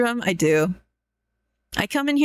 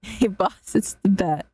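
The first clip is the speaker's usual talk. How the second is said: put-on New York accent; 2 semitones lower than usual. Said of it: "New Yorker accent and talk like a goon henchman".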